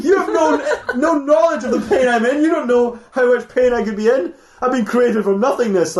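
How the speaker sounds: lightly voiced wounded beast, half laughing; lion man protest.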